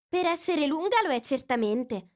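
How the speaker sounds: put-on young girl's voice pitched high, eager; a curious girl asking for a story; Alice. A narrator's reading. Curious girl reminding the mouse of his promise, lightly voiced.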